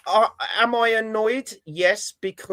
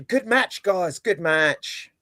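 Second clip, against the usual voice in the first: dry, sarcastic praise for a lost match; slower than usual. Real, not acted. Fan shrugging off a heavy defeat, sarcastic. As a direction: say it deadpan and mean the opposite. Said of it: "I feel a hint of sarcasm there".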